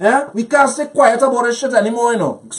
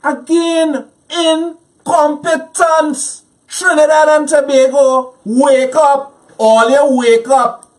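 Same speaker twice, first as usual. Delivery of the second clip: higher, slow indignant call to wake up; mad; 4 semitones higher, slower than usual. Real, not acted. Guest calling on Trinidad and Tobago to wake up, angry. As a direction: rouse the nation, fed up. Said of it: "I'm mad. I'm pissed".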